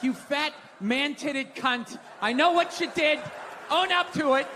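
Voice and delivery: hammed-up rage at the pizza thief; mock angry outburst. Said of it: "I can't be like".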